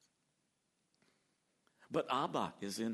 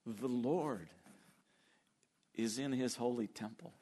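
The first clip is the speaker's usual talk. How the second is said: intimate. Shown as a demonstration. Preacher rereads the verse gently as the right picture. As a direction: say it as of a near friend. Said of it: "No, that's not the image at all".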